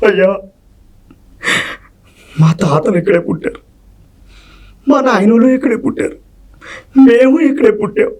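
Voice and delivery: desperate begging that builds to a tearful cry; pleading poor peasant. Shown as a demonstration. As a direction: beg the landlord for your land, breaking into a sobbing shout. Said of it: "ఆ reflection ఎలా ఉంటది?". (దొరను వేడుకునే పేద రైతు, ఏడుపుతో కూడిన అరుపు)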